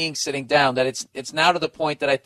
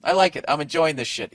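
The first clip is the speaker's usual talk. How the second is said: lightly raised, mock innocent voice; husband faking that sitting is efficient; 2 semitones higher than usual. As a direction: play it falsely reasonable, pitched up. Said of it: "I'm gonna act like".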